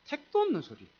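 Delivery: high scoff; scoffing dismissal. Real, not acted. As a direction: brush it off like nonsense. Dismissing the idea. (어림없다는 듯 높게 코웃음)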